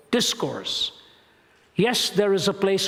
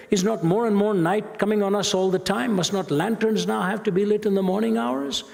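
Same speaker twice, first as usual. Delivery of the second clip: higher, urgent questioning of the madman, lightly voiced; dramatic reading; 5 semitones higher than usual. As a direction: pile up the questions with mounting alarm. Reads Nietzsche's madman with rising intensity.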